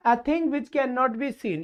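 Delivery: very slow, word by word reading; deliberate teacher dictation pace. Shown as a demonstration. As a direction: spell the question out slowly for the class. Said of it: "repeats question".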